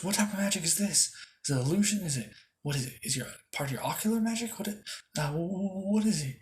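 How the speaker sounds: high, baffled rush of questions; startled questioning. Acted. Julius questions Asta about the clone, startled.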